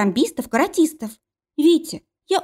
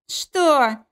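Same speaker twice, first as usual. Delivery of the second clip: roar; 6 semitones higher than usual. Acted. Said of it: "снова заревел парень".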